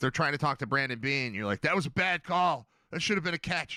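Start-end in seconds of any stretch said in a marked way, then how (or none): 1.6-3.8 put-on, pitched-up, half-yelled mild yell. Retelling someone yelling about a bad call: imitating someone yelling. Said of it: "you're yelling when people are".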